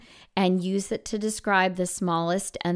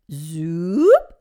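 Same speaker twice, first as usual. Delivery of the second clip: louder, sliding up from low to high; low to high slide; 3 semitones lower, 6 dB louder than usual. Shown as a demonstration. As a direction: glide the word Zoop upward. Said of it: "make my voice go from low to high".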